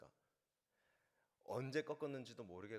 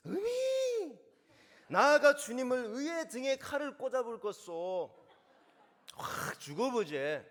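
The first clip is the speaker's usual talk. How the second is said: booming Jeolla dialect vow, high and much louder, slow; 11 semitones higher, 16 dB louder, slower than usual. Shown as a demonstration. Preacher playing Peter in Jeolla dialect, loud and high. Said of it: "전라도 말은 과연 어떨까요?".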